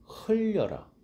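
흘려라 sung high, sliding down; high sliding call. Shown as a demonstration. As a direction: glide 흘려라 from high, falling. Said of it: "마지막 포인트가 중요합니다".

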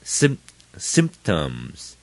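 sym- cut short, then symptoms; short vowels. Shown as a demonstration. Teacher breaking down the word, short SYM in symptoms. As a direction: keep the SYM of symptoms brief. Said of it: "都读得很短".

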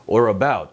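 "Or about" linked as one word; low, gliding "Or about"; smooth linking. Shown as a demonstration. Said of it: "매끄럽게 해주시고요".

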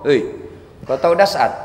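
boastful bragging, rising to a fake tearful whine; hammed-up proud benefactor; mock boaster. Man bragging to neighbors he made the preacher, showily. Boasting to people about good deeds.

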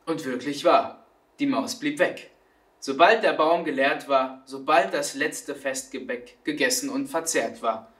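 melodic, rhythmic verse with pauses; expressive storytelling rhyme; poem recitation. A narrator's reading. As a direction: recite the playful moral to the children.

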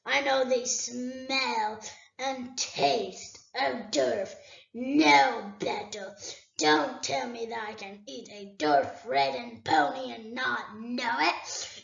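a great dragon toying with a thief; dragon Smaug. Acted. Smaug scolds Bilbo.

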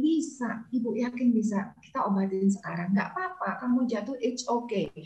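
put-on soft, soothing encouragement after the child's plaint; calm the worried child softly; reassuring mother. (ibu meyakinkan anak dengan lembut)

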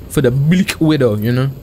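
put-on a light, half-hearted Russian accent; mock Russian accent, barely there. Gamer playing Black Widow, in a faint mock Russian accent. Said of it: "That was my Russian impression".

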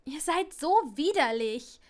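lightly voiced schoolgirl disgust. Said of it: "befand Parvati". (angewidert, etwas lauter)

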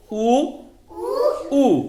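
उ clipped short and crisp; a quick short उ sound. Shown as a demonstration. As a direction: say उ briefly, a teacher's model. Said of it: "ह्याचा आखूड उच्चार करायचा".

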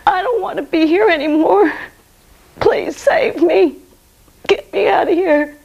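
retold desperate yell. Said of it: "I yelled at the top of my lungs".

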